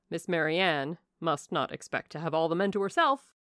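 a hint of bluff country gentleman; lightly voiced jovial squire. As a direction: advise with teasing heartiness. Narrator voices Sir John's advice.

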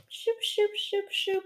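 high, soft prissy shooing; snooty rich people. Retold or imitated. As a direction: shoo them off like a snob. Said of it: "the rich people would be like".

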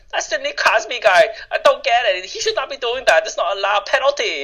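high, indignant mock Asian accent; exaggerated Asian-accented sports griping; Asian immigrant accent. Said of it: "I played this Asian guy".

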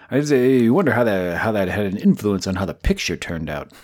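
put-on old Hollywood exec voice; 1950s studio executive. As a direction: talk like a fifties MGM executive. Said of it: "I'm gonna talk like a nineteen fifties, executive at M G M".

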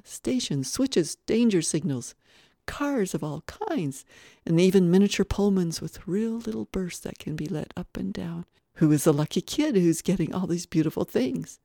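eager list of wonders; excited marveling. Acted. Guest marveling at a rich child's railroad, excited. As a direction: gush over each item, building to admiration.

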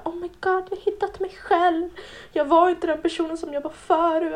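lightly voiced earnest oversharer; mock self-discovery post. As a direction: mimic people announcing their new selves. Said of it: "alla personer var så här".

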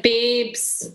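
tight Scottish vowel on babes; Scottish accent. Shown as a demonstration. Contestant refining Lawrence for host, strong Scottish accent on babes. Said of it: "like, really Scottish".

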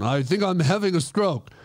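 badly faked Russian-ish accent; muddled Russian accent. Explaining the odd accent to girlfriend, mock Russian. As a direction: slip between French and Russian accents. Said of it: "Sounds kinda Russian".

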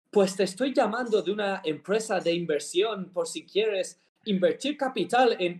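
a hint of an exaggerated British caller; mock British accent. Friend retelling a scam call, mock British accent. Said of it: "cambia a un acento británico exagerado".

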